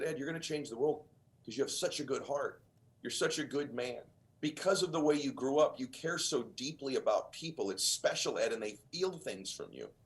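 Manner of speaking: soft tender advice. Retold or imitated. Dyer's tender advice retold.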